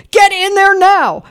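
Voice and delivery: high, loud, drawn-out order; program director's yell. Retold or imitated. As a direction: yell an urgent command across the station. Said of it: "program director yells at me".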